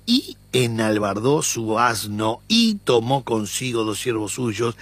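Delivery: cada "y" marcada y alargada; stress on each y. Shown as a demonstration. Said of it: "por eso las "y"... Que son muy fuertes". (acentuando cada "y" al leer)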